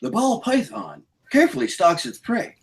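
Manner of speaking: lightly voiced nature documentary narrator, hushed; a hint of a hushed wildlife documentary narrator; David Attenborough. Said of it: "who's got their David Attenborough voice ready".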